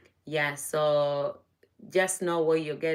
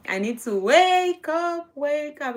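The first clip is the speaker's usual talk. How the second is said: perking up; 9 semitones higher, 6 dB louder, slower than usual. Real, not acted. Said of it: "I've been sounding kind of sleepy".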